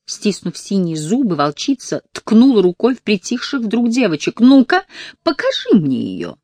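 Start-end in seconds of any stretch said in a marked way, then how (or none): 4.4-6.4 high, loud command; loud demand. Acted. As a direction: bark the order. Counselor demanding.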